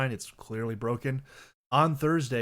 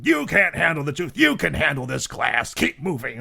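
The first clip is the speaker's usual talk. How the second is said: loud, raised-pitch movie-star tirade; hammed-up courtroom outburst, turned on yourself; theatrical impression, yelled; Jack Nicholson; 4 semitones higher, 8 dB louder than usual. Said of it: "Jack Nicholson".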